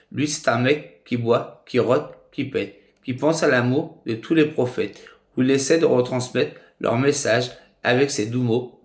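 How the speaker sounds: measured poem reading, pausing after each phrase; poem recitation. Acted. Recites his own poem.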